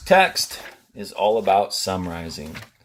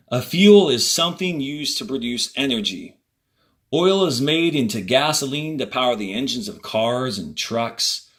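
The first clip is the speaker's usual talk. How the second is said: reading aloud to class. Acted. Teacher reading the passage to students, clear and measured. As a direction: read each sentence out for students.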